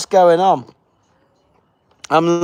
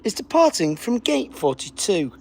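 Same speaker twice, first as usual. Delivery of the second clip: airport announcer; 5 dB quieter than usual. Pretend. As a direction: read the flight number like a departures call. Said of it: "You sound like the next flight to Alicante".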